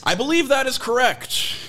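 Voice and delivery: lightly voiced prim white guy; slow and proper, a hint of white guy. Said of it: "say it like a white guy".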